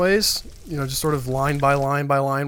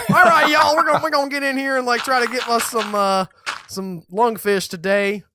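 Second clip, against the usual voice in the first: put-on Southern accent. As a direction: play it like a good old boy streamer. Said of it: "that really thick Southern accent".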